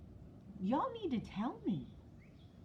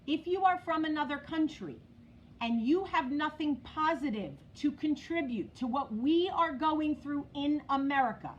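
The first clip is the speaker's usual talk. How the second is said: said again clearly. Real, not acted. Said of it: "Let me say it again".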